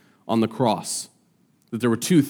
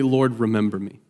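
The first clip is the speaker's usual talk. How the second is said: simple plea; 2 semitones lower than usual. Retold or imitated. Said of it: "But he says simply".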